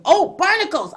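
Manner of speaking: sudden high "oh, barnacles"; surprised. Real, not acted. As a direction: catch yourself in surprise. Catches herself reading ahead.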